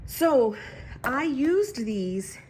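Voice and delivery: breathless after rushing; winded, words pushed out slowly; out of breath. Real, not acted. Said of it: "Now I'm out of breath".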